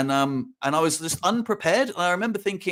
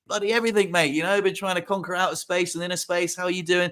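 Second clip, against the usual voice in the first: confident boast; 3 semitones higher than usual. Pretend. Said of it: "I really wish I'd been like".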